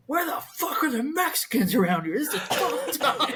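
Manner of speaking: doing the buddy's exasperated whine; a hint of a griping friend; buddy's complaint. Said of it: "he's like".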